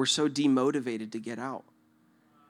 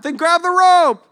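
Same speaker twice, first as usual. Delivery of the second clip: high, slow, loud order; exasperated shout; 12 dB louder, slower than usual. Acted. Rescuer to trapped man, exasperated loud shout. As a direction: yell it back, drawing it out. Acted quarrel, rescuer replies.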